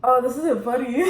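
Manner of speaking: laughing. Real, not acted. Laughing while in spicy pain.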